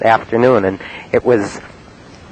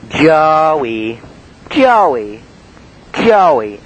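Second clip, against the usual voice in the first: teasing singsong; 6 semitones higher, much slower than usual. Retold or imitated. Mrs Rawson teasing name.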